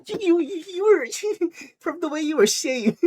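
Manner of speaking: very high, squeaky through laughter; laughing retelling. Retold or imitated. Retelling Bear's reply, cracking up laughing. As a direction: squeeze the words out through giggles. Retold line breaking into laughter.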